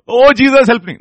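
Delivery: high, loud mock plea; exaggerated, high-pitched desperate plea; mock crying out. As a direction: wail it out as a showy cry for help. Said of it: "cry out ... is just not".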